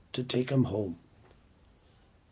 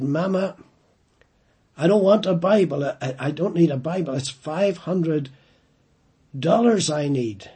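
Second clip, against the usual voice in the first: fast, louder, exasperated protest; angry son; 3 semitones higher, 6 dB louder than usual. Retold or imitated. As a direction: snap back at mother over the phone. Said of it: "he became really angry".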